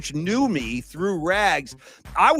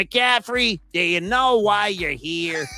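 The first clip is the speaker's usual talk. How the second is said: high bark on the name, then slow and deliberate; a stern principal calling him out, lightly played; principal's voice; 3 semitones higher, slower than usual. Principal confronting the truant student, a mild stern imitation. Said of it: "He had kind of a talk voice like this".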